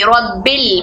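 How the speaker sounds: रब्बिल said with ba merged into lam; joined rabbil. Shown as a demonstration. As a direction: blend रब्बिल smoothly. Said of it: "बा को लाम से मिलाकर".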